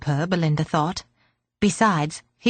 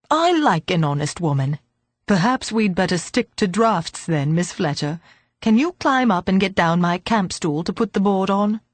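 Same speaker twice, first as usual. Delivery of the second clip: put-on old man voice.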